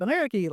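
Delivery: "Ameriky" said the Arabic way, ending in a long ee; "Ameriky" as Arabic for American; Arabic pronunciation. Shown as a demonstration. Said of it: "how to pronounce it in Arabic".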